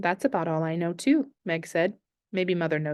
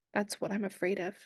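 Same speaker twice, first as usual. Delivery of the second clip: quiet tearful fear; 8 dB quieter than usual. Acted. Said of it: "A slow tear trickled down".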